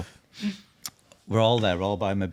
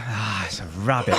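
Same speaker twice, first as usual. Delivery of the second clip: nonchalant; 3 semitones lower than usual. Retold or imitated. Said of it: "So nonchalantly".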